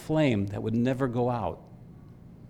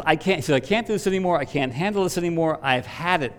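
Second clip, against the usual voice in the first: 1 mock exasperation; 4 semitones higher than usual.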